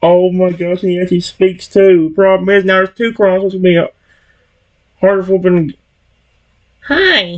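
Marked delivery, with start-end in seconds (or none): 6.8-7.4 put-on high, childish little-kid crocodile character voice. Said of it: "I can't do a crocodile".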